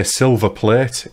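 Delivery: put-on slowly modelled Scottish accent. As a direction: quote the actor's Scottish accent tip, drawn out. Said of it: "the way to say it is say".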